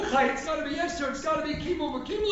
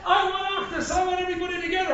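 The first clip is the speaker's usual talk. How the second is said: Korach faking unity; 6 semitones higher than usual. Acted. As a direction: sell the crowd a false unity, raised and quick. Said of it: "Korach, putting on a facade of what?".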